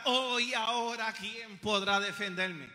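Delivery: slow, drawn-out mock wail; mock cry for help. Preacher mimicking believers in trouble, a theatrical mock cry. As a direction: cry out helplessly in jest, dragging the words. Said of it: "Comienzas a gritar".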